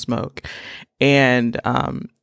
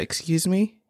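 indignant; 5 semitones higher, slower than usual. Retold or imitated. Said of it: "I said".

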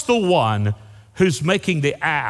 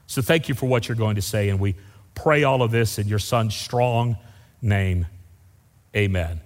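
lower-pitched, earnest public prayer; 3 semitones lower than usual. Real, not acted. Preacher praying before the message, low earnest prayer. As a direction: address God reverently, settling low into the amen.

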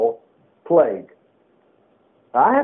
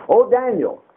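lamentable cry; 5 semitones higher than usual. Retold or imitated. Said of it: "he cried in a lamentable voice".

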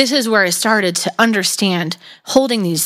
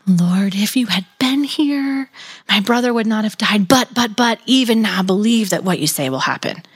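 tender. Shown as a demonstration. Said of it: "you could read this as Martha saying".

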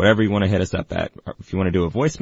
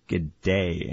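Australian accent; 6 dB quieter than usual. Shown as a demonstration. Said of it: "don't have the ear for accents".

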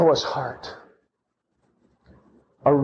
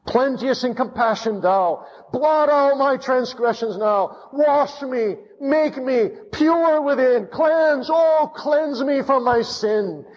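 preacher voicing Noah's earnest prayer, pitched up and pleading; 7 semitones higher than usual. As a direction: cry out to God for mercy. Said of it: "He was saying".

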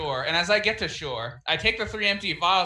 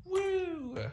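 high, soft woo; small high-pitched whoop; 8 dB quieter than usual. Real, not acted. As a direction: let out a long, light "woo". Player whoops while rolling attack.

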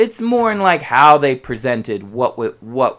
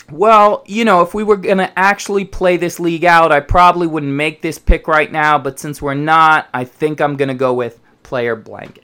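mock pundit; 5 dB louder than usual. Mocking the pundits' comments.

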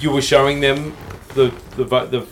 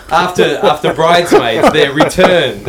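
louder, laughing through the words; 3 semitones higher, 7 dB louder than usual. Real, not acted. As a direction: chuckle out the joke. Joking about a band's gig.

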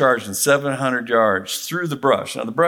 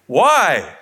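laughing; 8 semitones higher than usual. Real, not acted. Laughing through the tense story.

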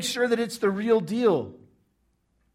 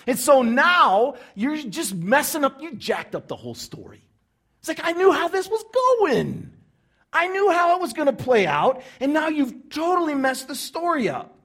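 louder, higher complaining rant; indignant listener; 5 semitones higher, 5 dB louder than usual. Acted. Crowd member scolding Jesus for messing up the story, indignant. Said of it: "He's like".

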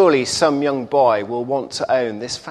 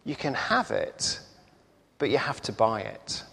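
smiling shopkeeper; 2 semitones lower, 10 dB quieter than usual. A narrator's reading. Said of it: "the shop owner smiles and says".

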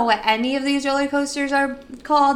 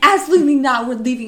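louder, flat-out no; firm refusal; 5 dB louder, faster than usual. Retold or imitated. Narrator refusing to stay in line, loudly. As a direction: bark it: absolutely not. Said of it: "And I'm like".

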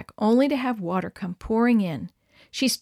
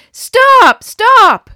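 much higher, much louder yelling; desperate shout; 13 semitones higher, 16 dB louder than usual. A narrator's reading. Group waving at passing car, desperate shout. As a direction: scream to flag the car.

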